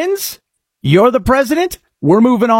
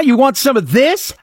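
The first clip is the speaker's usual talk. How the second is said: raised, cocky dare; mock taunt; 6 semitones higher than usual. Host daring Canadians with mock swagger. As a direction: puff up and dare them. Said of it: "I just go".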